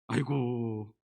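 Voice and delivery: low, soft, drawn-out mock pity; dismissive, hushed sneer; mocking sigh. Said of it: "원어로 보면 조롱하고 있는 거예요".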